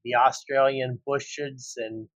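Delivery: hammed-up Australian accent, slow; a clumsy try at an Australian outback voice; bad Australian accent. Husband joking about the outback in a bad Australian accent. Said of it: "worst impression".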